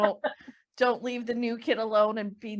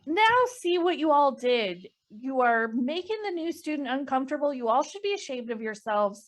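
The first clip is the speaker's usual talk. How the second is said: scolding; 3 semitones higher than usual. Acted. Nick shames students crowding the newcomer, scolding. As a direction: tell off a crowd of onlookers.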